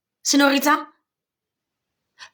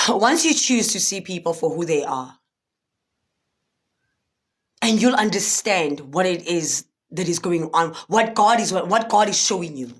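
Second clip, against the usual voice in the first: teary-eyed; 4 semitones lower than usual. Real, not acted. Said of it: "I'm getting teary-eyed all of a sudden".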